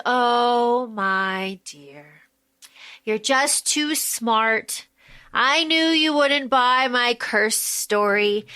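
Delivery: lightly voiced smooth old mentor, slowed down; condescending Brigham. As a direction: purr it slowly and patronizingly. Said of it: "he goes".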